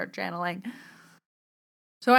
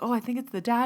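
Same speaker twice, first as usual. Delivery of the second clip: higher, tentative retold voice; dawning realisation; 6 semitones higher, faster than usual. Bree arriving at the answer, higher realising voice. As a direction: lift the pitch as the answer dawns.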